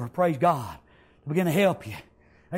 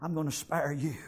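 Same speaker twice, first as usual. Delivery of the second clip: hushed king; 6 semitones lower, 9 dB quieter than usual. Acted. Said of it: "king says".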